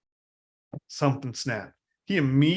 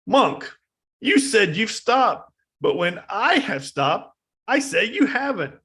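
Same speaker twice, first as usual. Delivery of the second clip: high, loud, slow challenge; a bandit shouting at the monk; demanding shout; 9 semitones higher, 4 dB louder, slower than usual. Retold or imitated. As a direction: demand it of him.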